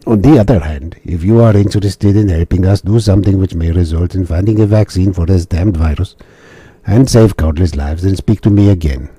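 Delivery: a new silly voice for the officer; officer offering the mission in a silly voice; different silly voice. Acted. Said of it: "Different silly voice".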